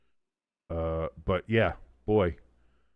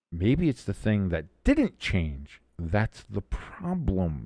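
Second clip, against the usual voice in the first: slow, drawling Bill Clinton voice; a light Clinton drawl; Bill Clinton impression; 3 semitones lower, slower than usual. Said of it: "I'm doing the Bill Clinton here".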